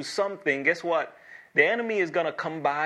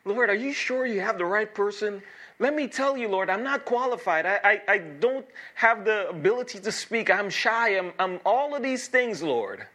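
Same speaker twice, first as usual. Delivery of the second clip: reluctant prayer; 6 semitones higher than usual. Retold or imitated. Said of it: "I keep saying".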